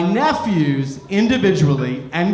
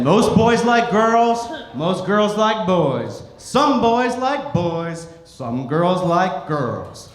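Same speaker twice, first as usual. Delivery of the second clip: slow, measured, each phrase set out; slow, careful explanation to kids; slower than usual. Retold or imitated. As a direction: spell it out slowly for children. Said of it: "slow careful explanation to kids".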